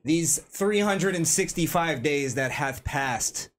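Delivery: lightly ceremonial awards-show oratory; mock-solemn speech. Host opening the year-end awards for friends, mock-solemn. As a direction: pronounce it grandly with long pauses between phrases.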